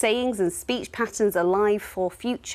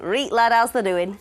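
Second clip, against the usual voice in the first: mock Yorkshire; 3 dB louder than usual. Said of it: "That's proper Yorkshire".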